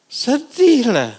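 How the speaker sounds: mournful exclaim. Acted. Preacher describing parents leaving their crying child, slow mournful lament. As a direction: stretch out the sorrow.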